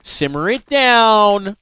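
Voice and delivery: loud, slow chill-out voice; calming the team. Retold or imitated. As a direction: tell everyone to calm down, drawn out. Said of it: "Detonator like".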